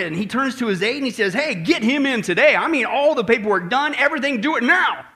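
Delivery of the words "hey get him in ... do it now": urgent, excited orders from a general. Acted. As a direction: bark out excited orders, mildly hammed-up. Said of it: "he gets all excited".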